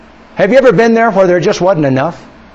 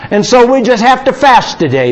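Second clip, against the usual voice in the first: raised, drawn-out mock lament; mock suffering father; 4 semitones higher, 3 dB louder than usual. Dad telling hungry kids they are suffering for Jesus, mock-pious lament. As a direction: play the martyred dad, loud and slow on the opening. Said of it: "now I could have said".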